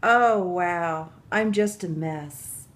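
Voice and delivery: usual speaking voice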